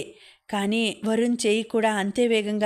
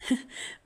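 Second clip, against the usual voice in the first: a short, breathy, mostly unvoiced laugh; soft laugh; 8 dB quieter than usual. A narrator's reading. Preethi laughing at Varun's kidnap plan, soft laugh. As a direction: let out a quick hushed chuckle. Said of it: "ప్రీతి గట్టిగా నవ్వింది".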